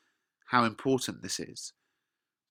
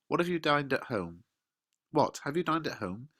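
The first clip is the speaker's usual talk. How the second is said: teasing nurse. Acted. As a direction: tease her with mock praise. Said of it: "The nurse says".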